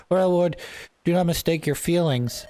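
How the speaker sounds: earnest retainer. Acted. Marcus firmly addresses anxious lord in game.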